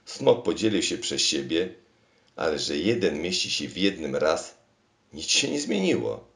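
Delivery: rushing in with bad news, voice climbing; alarmed cry. King bursts in on the machine, loud and alarmed.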